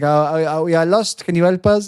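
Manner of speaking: high, loud pleading act; hammed-up lost traveller; mock lost traveller. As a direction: play helpless and lost. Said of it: "it's like".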